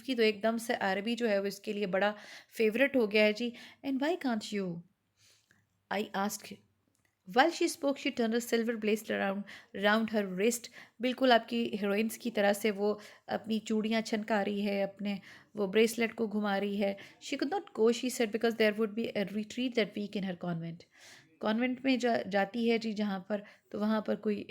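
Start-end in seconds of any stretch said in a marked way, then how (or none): 3.9-10.7 slow, measured literary reading; story reading. Acted. Teacher reading Araby to students, slow story narration. 17.2-20.8 slow, measured literary reading; story reading. Acted. Teacher reading Araby to students, slow story narration.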